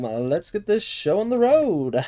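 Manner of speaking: loud, excited kickoff call; hype announcer. Pretend. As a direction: belt it like a host starting the show. Hyped game kickoff.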